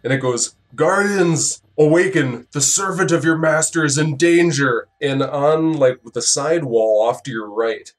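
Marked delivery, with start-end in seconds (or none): 0.7-4.9 slurred, raised summoning call. Acted. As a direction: slur the words as you call. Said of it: "the slurred voice".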